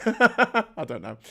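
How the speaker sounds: high, loud, drawn-out laughing words. Real, not acted. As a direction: laugh your way slowly through it. Laughs at own remark about girlfriend.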